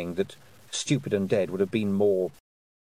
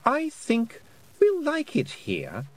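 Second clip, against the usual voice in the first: silky, mocking fairy queen voice; 13 semitones higher than usual. Queen taunting Tiffany with a cool, mocking voice. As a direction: taunt her sweetly from above.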